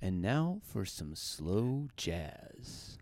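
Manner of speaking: slow, soft late-night radio voice; public radio host. Pretend. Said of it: "This is my public radio voice".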